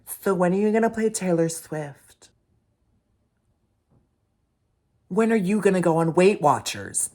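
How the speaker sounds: high, loud mocking voice; hammed-up drunk heckler impression; mocking drunk woman. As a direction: mimic her whiny demand, shrill and loud. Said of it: "came up to the table and said".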